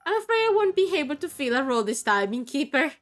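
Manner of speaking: lightly voiced sorrowful undead; undead character's accent. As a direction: speak as a melancholy undead knight.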